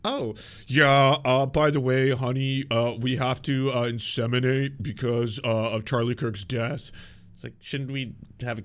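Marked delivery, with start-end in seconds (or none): 0.0-6.9 much louder, slow, hammed-up cheery wife; mock wife. Imagined wife telling her husband, loud mock-cheery voice. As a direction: play the wife announcing it to her honey. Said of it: "Does she have to be like".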